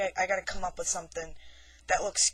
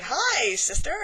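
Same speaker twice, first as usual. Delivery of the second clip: sweet greeting; 6 semitones higher, 7 dB louder, slower than usual. Retold or imitated. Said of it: "So I'm like".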